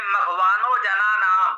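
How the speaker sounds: मघवानो जना नाम as one slow, unbroken phrase; joined phrasing. Shown as a demonstration. Teacher showing how phrasing shifts meaning, joined phrasing. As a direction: run मघवानो straight on into जना नाम without a pause. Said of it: "यही ये देखें, हम कहें".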